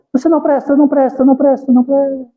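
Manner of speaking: the mountain throws it back; child's insult echoed back; echoing voice. Retold or imitated. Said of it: "A voz".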